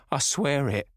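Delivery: rasping hoarse oath; hoarse echo. A narrator's reading. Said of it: "came in hoarse echo".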